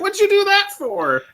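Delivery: very high incredulous squeal. Retold or imitated. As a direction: squeak out the question. Retelling incredulous friends.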